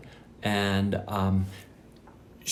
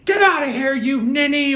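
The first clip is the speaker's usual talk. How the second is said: high, sustained mock yell; imitating a screeching, scolding teacher; mock angry teacher; 10 dB louder than usual. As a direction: send the pupil off in a hammed-up shout. Acts out teacher dismissing pupil.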